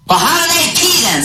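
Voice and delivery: high mock Englishman. Drunk Englishman voiced.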